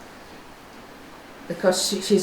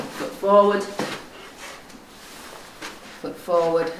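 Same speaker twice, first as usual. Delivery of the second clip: ordinary talk, nothing marked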